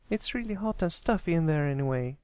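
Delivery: put-on very high young filly voice; defensive little filly. Sweetie Belle defending her hat, in a very high little voice. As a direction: explain the silly hat earnestly.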